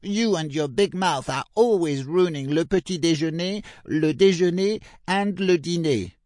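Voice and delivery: high, loud scolding sibling voice. A narrator's reading. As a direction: tell her off for her big mouth. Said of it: "said one of ses frères".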